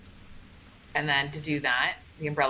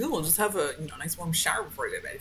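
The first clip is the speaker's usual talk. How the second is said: mocking; faster than usual. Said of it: "Fuck, I will".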